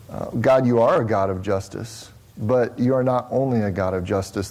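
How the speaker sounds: low, measured praying voice; earnest prayer. Real, not acted. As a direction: address God reverently, evenly. Leads the congregation in prayer.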